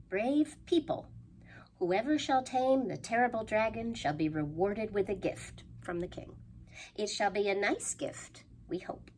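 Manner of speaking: lightly voiced formal decree; a hint of a town crier; proclamation. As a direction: read it like a grand announcement. Reading the villagers' sign.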